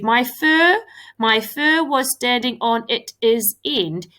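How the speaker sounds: it is read out pointedly as two words; reading it aloud wrong. Shown as a demonstration. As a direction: stress the wrong it is. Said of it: "let's have a read".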